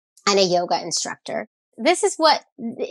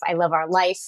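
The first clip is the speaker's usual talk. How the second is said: whisper; 2 semitones lower than usual. Real, not acted. Tender confession after joking.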